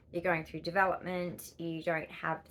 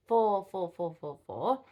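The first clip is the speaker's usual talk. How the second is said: breathy whisper, correcting herself; whispered counting; 4 dB louder than usual. Real, not acted. Counting cube colours to herself in a whisper. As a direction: count the squares under your breath.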